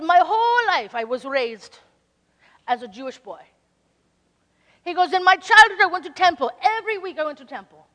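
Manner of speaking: put-on loud elderly man's voice, building; a lightly voiced old Southern-tinged man telling his story; hint of an old man testifying; imitating Hank. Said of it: "I'm gonna try to imitate Hank".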